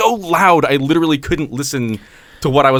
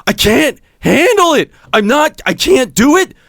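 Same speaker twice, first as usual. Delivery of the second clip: retold drunk screaming; 4 semitones higher, 3 dB louder than usual. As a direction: mimic a drunk man yelling his despair. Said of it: "starts screaming at the top of his lungs".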